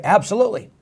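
mock enthusiastic volunteer; eager yes. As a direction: jump at the chance, all in. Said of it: "you'd reply right away".

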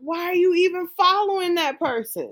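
high mocking kid voice; squeaky, scolding mimic of a teen; teen scolding a friend, high and mocking; mocking young people. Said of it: "they're like".

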